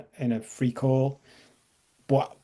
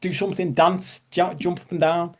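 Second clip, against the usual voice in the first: higher, urgent inner voice; raised pitch, mildly pushy anxious self-talk; anxiety voice; 5 semitones higher, 3 dB louder than usual. Acted. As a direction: lightly act out an anxious voice egging you on. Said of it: "The anxiety voice goes".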